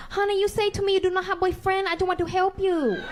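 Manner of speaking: guilt-trip the customer, half laughing; mock offended salon worker. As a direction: salon worker teasing the customer about no boyfriend.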